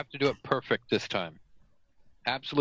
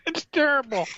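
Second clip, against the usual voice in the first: laughing; 13 semitones higher than usual. Real, not acted. Laughing reaction.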